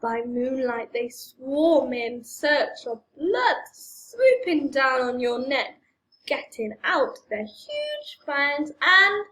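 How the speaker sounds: slow, menacing horror storyteller; scary voice. Acted. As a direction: draw it out like a spooky villain. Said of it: "Do your best scary voice in this bit".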